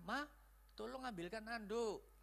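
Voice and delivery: soft, kindly request to a wife; gentle, easy-on-the-ear favour; nice tone. Shown as a demonstration. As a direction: ask sweetly and quietly. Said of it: "Nah, baik kan? Nangkepnya enak".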